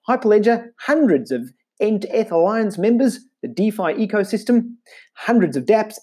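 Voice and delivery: put-on Australian accent. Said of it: "in an Australian accent".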